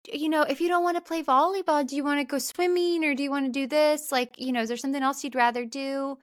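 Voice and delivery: lightly voiced helpful counselor; nice camp counselor. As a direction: offer options brightly and quickly. Voices nice counselor's friendly offer.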